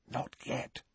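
whispered into his ear; breathed whisper. A narrator's reading. Hermione stopping Harry under the cloak, a breathy whisper. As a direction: breathe it, barely audible. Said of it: "she breathed in his ear".

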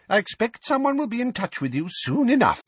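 put-on high, fussy old woman; flustered old neighbour, high and fretful. A narrator's reading. Mrs Figg voiced.

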